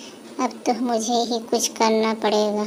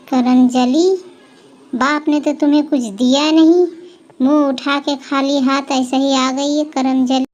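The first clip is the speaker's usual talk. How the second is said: taunting scold. Acted. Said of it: "आवाज़ देने लगी ज़ोर ज़ोर से".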